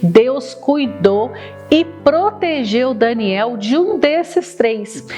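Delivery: slow, deliberate storyteller voice; reading to a toddler. Acted. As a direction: tell it slowly for little kids.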